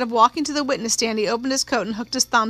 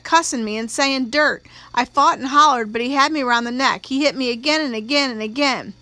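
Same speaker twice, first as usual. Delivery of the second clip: slightly raised, insistent country testimony; lightly voiced country-girl witness. Young witness telling the court of an attack, insistent country girl. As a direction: lightly act a witness pouring out her story.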